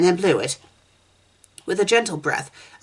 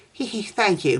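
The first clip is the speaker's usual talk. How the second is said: giggled; 5 semitones higher than usual. Acted. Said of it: "McKaylee giggled".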